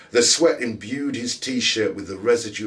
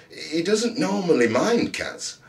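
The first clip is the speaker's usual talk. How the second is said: gasped; 10 semitones higher, slower than usual. A narrator's reading. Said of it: "Ollie gasped".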